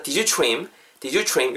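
"did you trim" as "dijoo chrim"; linked pronunciation. Shown as a demonstration. Teacher recapping for learners, "did you trim" linked as "dijoo chrim". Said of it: "요렇게 발음 땡겨가시고요".

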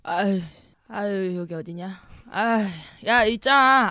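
put-on slurred, tipsy drunk voice. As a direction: play it drunk and mumbling. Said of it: "자, 이제 취한 연기 들어갑니다".

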